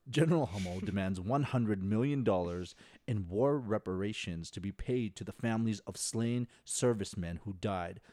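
measured, emphatic radio read, slowing to the end; put-on NPR voice. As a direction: deliver the synopsis like a public radio host. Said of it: "read it in my N P R voice".

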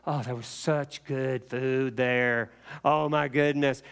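slow, savoring mock nostalgia; acted dreamy craving; wistful longing. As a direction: draw it out, lost in a delicious memory. Longing memory of food, acted.

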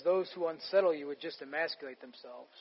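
low, soft and hushed; a low, quiet delivery of strong words; quiet reading. Shown as a demonstration. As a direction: read the harsh words under your breath. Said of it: "with some strong words".

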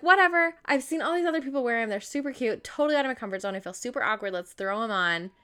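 whatever; brushing off her doubts; past self hyping up. Retold or imitated. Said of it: "I was like".

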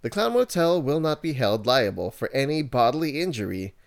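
corporate announcer reading a disclaimer; radio voice. Acted. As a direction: read it like a slick radio ad. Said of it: "I'm gonna put my radio voice for this one".

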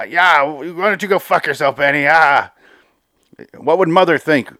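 high, acted angry shouting; angry outburst. Captive overseer cursing his brother Benny, angry outburst. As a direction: shout him down, imitating an outraged brother.

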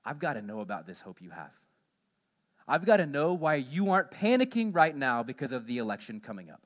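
pleading seeker. Pretend. Unbeliever anxiously pleading with believers about the election. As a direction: beg to know the secret of their hope. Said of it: "would look at us and say".

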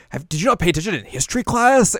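high, loud scolding question; hammed-up exasperated comeback; mock incredulity. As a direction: push the pitch up in disbelief. Acts Kagome's incredulous retort.

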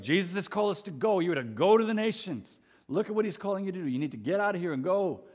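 imitating an urgent missions preacher, pitch lifted; emphatic missions preaching. Imitating Bible school preachers urging students overseas, emphatic. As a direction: push the call to go, insistently. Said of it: "very strong emphasis on world missions".

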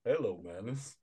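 a lightly voiced mystical coyote; hint of an otherworldly dream messenger; the space coyote speaking in a dream, lightly voiced. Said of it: "space coyote come into your dream".

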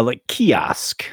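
slow, breathy whisper of the word; savoring whisper. Shown as a demonstration. Savoring his favorite word.

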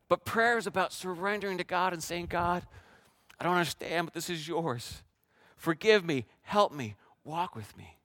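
softened, surrendering prayer; a hushed prayer to God. Acted. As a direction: pray it gently.

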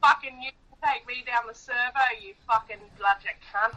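thick Aussie slang rant; broad Australian. Shown as a demonstration. Girlfriend showing off Australian for the podcast, broad Australian accent. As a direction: swear like a stereotypical Australian. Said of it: "hear you speak in Australian".

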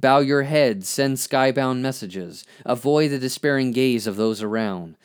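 measured spoken-word poetry reading; poem recitation. Acted. Reads own poem aloud.

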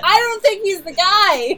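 mock loud announcement. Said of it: "Just, like, literally turns around".

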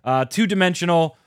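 coughing, words strained by tea; choking on a drink. Real, not acted. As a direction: talk through a cough after a sip. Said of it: "I'm choking on iced tea as I talk about this".

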